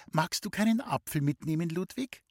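suddenly gentle sister. Acted. Sister sees Ludwig off to class, suspiciously gentle. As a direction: coax him gently with a too-sweet offer. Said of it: "Auf einmal wurde sie ganz sanft".

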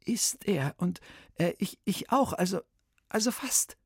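put-on nervous boy blurting out his trouble; boy's voice.

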